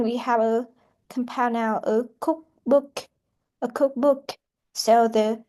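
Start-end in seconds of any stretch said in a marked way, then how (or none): 1.8-4.4 "cookbook" with main stress on "cook". Shown as a demonstration. Teacher demonstrates compound noun stress, COOK stressed in "cookbook". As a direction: lean on "cook", let "book" follow lighter. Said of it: "The word cook is the first word".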